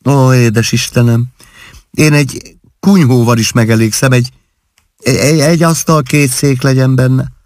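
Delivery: put-on high, sweet young wife's dreamy voice; girlish daydreaming. New bride to her husband, high and dreamy.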